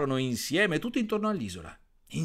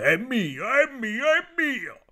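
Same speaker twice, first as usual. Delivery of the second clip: rising higher with each mock "mine"; mocking the frogs' cries; 11 semitones higher, 5 dB louder, slower than usual. The toad mimics the frogs' endless shouting, mocking rising cries. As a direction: imitate the squabbling, climbing up. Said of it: "non sento che gridare".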